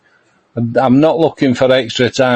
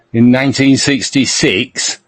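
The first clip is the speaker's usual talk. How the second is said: lightly voiced football manager impression, Middlesbrough accent; measured Middlesbrough team talk with pauses; Brian Clough. Motivating the England team, lightly put-on manager voice. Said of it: "I'm doing a Clough".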